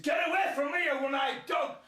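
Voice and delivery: high, loud shout at the dog; frantic high shout. Retold or imitated. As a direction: drive the dog away with a yell. Fending off a snapping dog.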